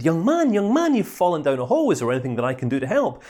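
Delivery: a touch of bedside manner; concerned doctor. Acted. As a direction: play the kindly family doctor, quick at the end. Doctor addresses man in hole.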